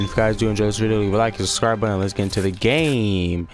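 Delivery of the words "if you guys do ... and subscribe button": rattled-off quick sign-off; real fast. Real, not acted. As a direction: rush through it in one quick breath. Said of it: "how I said that real fast".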